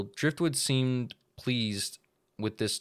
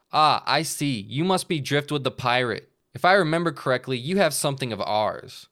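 louder, knowing Santa; Santa boss voice; 4 semitones higher, 5 dB louder than usual. Acted. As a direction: speak like a crime boss. Bug Santa speaks.

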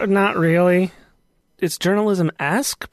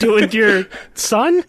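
laughing; 3 semitones higher, 3 dB louder, much slower than usual. Pretend. Punchline of the joke answer.

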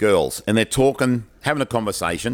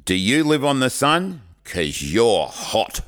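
cheesy pick-up line; slower than usual. Retold or imitated. Kid performs his cheesy pick-up line.

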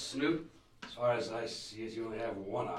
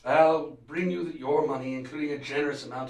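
sharp, much louder; loud and curt; 4 semitones higher, 9 dB louder than usual. Acted. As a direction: bark out the agreement. Villain snaps agreement.

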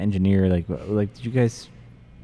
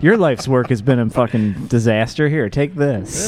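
dismissive dad, pitched up; imitating dad; 4 semitones higher, slower than usual. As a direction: hand it over with disdain. Dad voiced handing off wine.

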